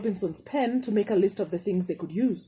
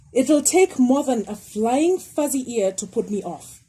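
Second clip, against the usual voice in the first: snort; 3 semitones higher, 4 dB louder than usual. Acted. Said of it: "she snorted".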